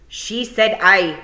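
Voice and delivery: loud, slow, drawn-out insistence; shouted. Acted. Rob Anybody overruling Fionn with a shout. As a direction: shout down the doubter. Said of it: "Rob Anybody shouted".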